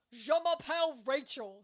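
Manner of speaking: French spoken with a thick American accent; deliberately unconvincing French, all American accent. Shown as a demonstration. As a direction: say the French loudly with American vowels. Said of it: "in the most American accent".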